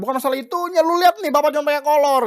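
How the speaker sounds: high, loud mock complaint; a dad whining that he is left in his underwear; exasperated father. Father tells his son he is left wearing only shorts, high and loud.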